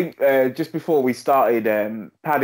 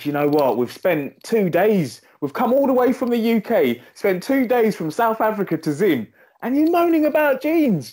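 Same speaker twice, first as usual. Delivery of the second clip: indignant retort; 11 semitones higher than usual. Retold or imitated. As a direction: throw it back at the auntie, high and fed up. Arguing with auntie over jeans.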